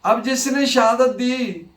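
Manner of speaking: ordinary talk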